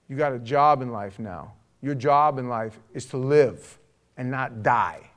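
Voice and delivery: loud, forceful tough-love charge; preacher laying down the law; stern exhortation. Retold or imitated. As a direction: drive it home with hard emphasis. Stern exhortation to grieving young man.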